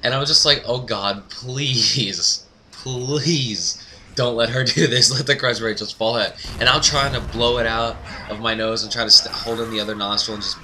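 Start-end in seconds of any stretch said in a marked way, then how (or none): 0.7-6.3 drawn-out mock pleading on "please"; retold desperate prayer; fearing for life. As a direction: beg like a scared kid, hammed up. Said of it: "fearing for my life".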